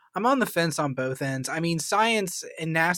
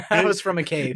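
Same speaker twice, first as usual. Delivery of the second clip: echoey; 3 semitones higher, 4 dB louder than usual. Real, not acted. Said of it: "You were echoey when you said that".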